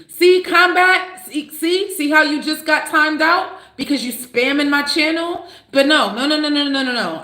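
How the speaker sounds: wag a finger at the spammer; teasing scold. Real, not acted. Teasing the commenter Combat after timing him out, high sing-song.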